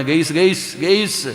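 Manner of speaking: mock youngster calling out guys; mocking kids calling guys. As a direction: tease the kids' way of saying guys. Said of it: "അവൻ വാപ്പാനെ വിളിക്കണേ".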